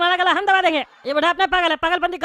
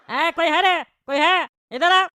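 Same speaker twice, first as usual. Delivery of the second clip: louder call across the cabin; 4 dB louder, slower than usual. Acted. Neighbour calling for the flight attendant, loud call. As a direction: summon the crew loudly.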